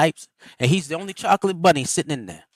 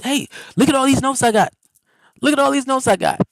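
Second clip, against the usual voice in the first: high mock boast; lightly mocking a proud student; bragging voice; 8 semitones higher, 5 dB louder, faster than usual. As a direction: imitate a show-off waving his notes. Mimicking people bragging about notes.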